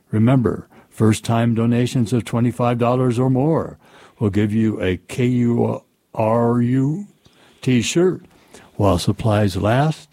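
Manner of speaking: smooth radio announcer read; radio promo read. Acted. Reads station fundraising promo.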